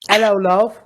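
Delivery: cheesy cockney greeting; London accent. Pretend. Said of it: "We went from London to Ireland".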